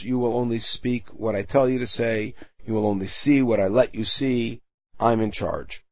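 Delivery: God speaking firmly. Acted. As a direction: lay down the law quietly. Teacher voicing God's firm rule.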